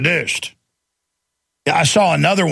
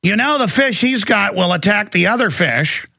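mock busybody; 6 semitones higher than usual. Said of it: "she starts telling the woman".

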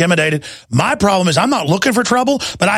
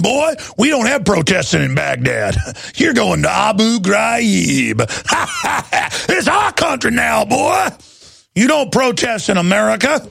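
mock bully cop; 4 semitones higher than usual. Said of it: "now they're here going".

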